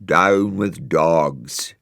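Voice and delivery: very slow, drawn-out tree protest; a hint of spooky tree voices; trees grumbling. A narrator's reading. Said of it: "trees stop crying".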